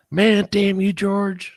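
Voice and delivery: a real, raw outburst at a lost friend; anguished cry to George. Real, not acted. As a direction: curse the friend you miss, out loud. Grief outburst at dead friend.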